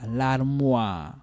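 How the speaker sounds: "L'armoire" ending in an open, held "wah"; oua for OI. Shown as a demonstration. Teacher repeats the word after the rule, oua sound. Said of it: "O I is oua".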